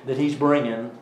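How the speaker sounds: lively southern lilt; southern accent. Real, not acted. Summing up the prophet's living symbol, southern accent. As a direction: slip into a southern accent while explaining. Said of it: "gone into my southern accent".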